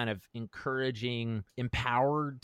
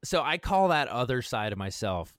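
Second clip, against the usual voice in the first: laughing; 6 semitones higher than usual. Real, not acted. Laughing while naming Old Zay.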